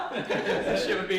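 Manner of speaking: words broken up by laughter; real helpless amusement; laughing hard. Real, not acted. Talking through laughter.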